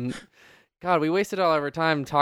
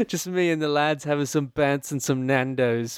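leichter britischer Lad-Akzent, langsam; lightly hammed British lad voice; mock British accent. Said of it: "any British accent I've ever done".

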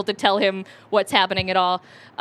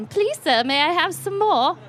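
high, meek little pleading voice; mock begging orphan; 7 semitones higher than usual. Asking an older gentleman for more, mock pleading. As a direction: beg sweetly, pitched well up.

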